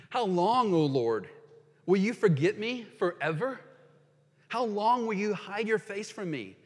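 earnest psalm reading; impassioned scripture reading. Acted. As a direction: read it as a cry to God. Reads Psalm 13 aloud.

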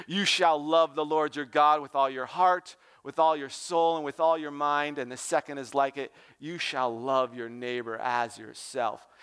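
calm, dark, deep voice. Retold or imitated. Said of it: "speaks with a calm, dark, deep voice".

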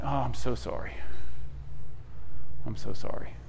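father to son after the crash, soft and half-whispered; soft mock sympathy. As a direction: hush it, mock consoling. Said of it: "I'm like".

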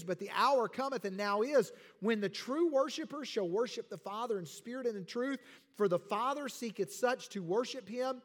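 preacher reading John aloud; scripture reading. Acted. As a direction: proclaim the verse to the congregation.

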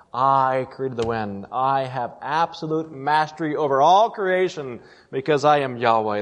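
slow, solemn divine declaration; measured I statements, each one deliberate; voice of God. Acted. Preacher speaking as the Creator to listeners, slow and solemn. Preacher voicing God's answer.

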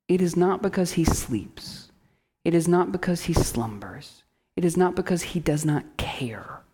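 softly, dropping to a whisper; hushed preaching. Real, not acted. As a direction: whisper the refrain at the end. Quiet preaching repetition.

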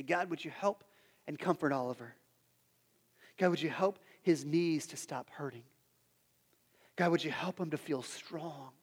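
imitating a hushed, tender bedside-style prayer; gentle retold prayer. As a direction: softly pray over a hurt child. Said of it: "You begin to pray over him".

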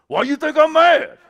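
high, loud comic protest; hammed-up touchy retort; mock indignant. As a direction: blurt it out in mock outrage. Acts Ryan protesting he isn't mad.

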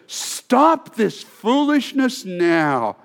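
Paul ordering the Galatians, slow and stern; stern command. Acted. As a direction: lay down the law. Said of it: "Paul says".

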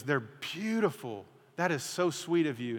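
a lightly voiced wife, slow and soft; wife gently moved by the bouquet; touched wife. Wife voiced receiving flowers.

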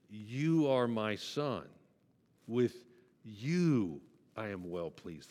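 slow, solemn fatherly words; tender voice of God. Acted. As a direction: speak it slowly, like a father blessing his son. Quoting God speaking to Jesus.

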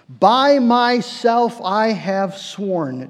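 very slow, weighty oath, each word drawn out; solemn oath. Acted. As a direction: lay down God's vow slowly and gravely. Quoting God's oath in Genesis.

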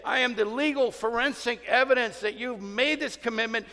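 firm divine rebuke; God's stern rebuke. Retold or imitated. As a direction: confront them as God himself.

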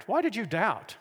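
mild, imagined scolding; harsh reproach. Retold or imitated. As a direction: reproach him without raising the volume. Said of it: "spoke harshly to Peter".

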